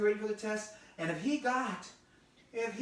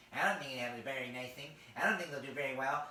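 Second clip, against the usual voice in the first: low, quick nasal belittling; nasal naysayer voice; nasally minimizing; 5 semitones lower, faster than usual. Shown as a demonstration. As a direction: talk down through the nose, fairly fast. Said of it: "when someone talks like that".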